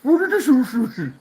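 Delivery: words squeezed out through laughter; laughing. Real, not acted. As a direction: laugh while you ask it, pitch high. Laughing while reading a comment.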